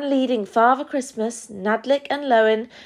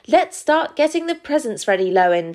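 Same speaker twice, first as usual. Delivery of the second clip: high-pitched, eager start; keen to get going; excited; 5 semitones higher, faster than usual. Acted. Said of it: "said Nadlik excitedly".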